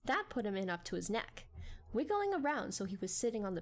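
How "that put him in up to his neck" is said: ordinary delivery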